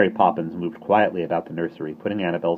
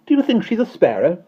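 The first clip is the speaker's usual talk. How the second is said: scornful; 8 dB louder than usual. Acted. Nanny scoffing.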